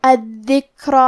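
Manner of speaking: الذکر with the ک released on a puff of breath; الذکر with a whispered, airy ک; breathy kaf demo. Shown as a demonstration. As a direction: let the air run out on the ک of الذکر. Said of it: "یہ کلمہ کو ایسے پڑھیں گے".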